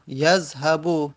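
یذهبو drawn out slowly, syllable by syllable; slow model reading. Shown as a demonstration. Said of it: "مثل مثلاً یذهبو". (یذهبو را آهسته و کشیده بگو)

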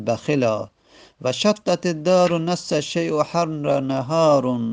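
slow, measured chanting of Arabic verse; verse recitation. Acted. Teacher reciting Ibn Malik's grammar verses to students. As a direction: intone each line of the poem deliberately.

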